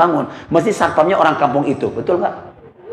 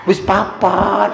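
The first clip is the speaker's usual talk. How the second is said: imam insisting four; much slower than usual. Retold or imitated.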